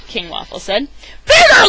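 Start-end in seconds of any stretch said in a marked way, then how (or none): 1.2-1.7 loud triumphant shout. A narrator's reading. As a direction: yell it out, thrilled. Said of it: "Lunchbox Louie shouted".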